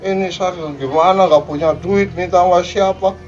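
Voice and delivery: the children shouting at their sick parents, mock angry; mock angry yelling. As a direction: yell it like a spoiled grown child. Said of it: "nggak bener teriak-teriak ya".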